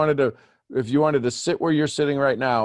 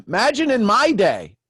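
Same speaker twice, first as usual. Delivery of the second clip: put-on old-timer voice; 9 semitones higher, 4 dB louder than usual. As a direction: tell it like an old-timer reminiscing. Jokes about the old days.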